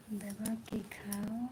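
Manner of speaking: slow, very soft read-out; reading under breath. Real, not acted. Streamer reading a viewer's comment to herself, slow and hushed. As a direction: murmur the comment slowly.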